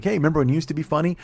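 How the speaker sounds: imitated audience complaint. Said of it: "you guys are gonna be like".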